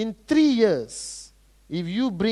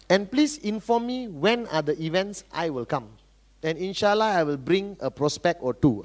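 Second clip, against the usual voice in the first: laid-back prospect; 4 semitones lower, 5 dB quieter than usual. Acted. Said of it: "So if you come and say".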